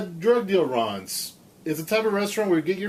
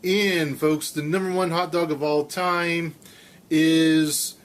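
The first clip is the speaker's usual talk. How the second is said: Casey Kasem. Acted. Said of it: "That's my Casey Kasem".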